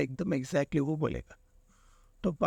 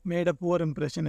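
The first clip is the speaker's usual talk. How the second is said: slow; much slower than usual. Shown as a demonstration. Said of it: "तो option four".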